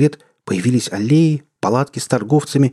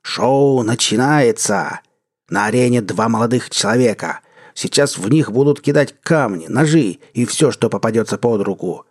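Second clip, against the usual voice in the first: booming sinister voice. Acted. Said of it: "громкий, зловещий голос".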